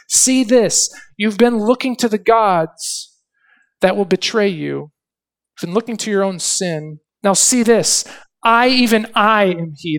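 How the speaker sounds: God's voice declared from the pulpit; preaching scripture aloud. Acted. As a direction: call them to see, commanding. Reading God's words with force.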